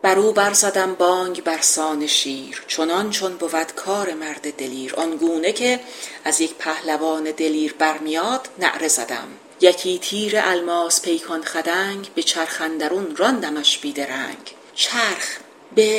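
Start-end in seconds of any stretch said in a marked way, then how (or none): 0.0-4.9 measured epic verse reading; poem recitation. Acted. 9.6-14.5 measured epic verse reading; poem recitation. Acted.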